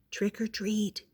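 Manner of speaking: small soft timid-sized call. A narrator's reading. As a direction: say it very softly. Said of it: "he said very softly".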